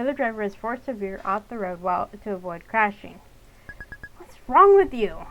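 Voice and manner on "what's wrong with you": much louder, slow yell; the girl screaming at her dad; shout. Acted. June yelling at reckless dad.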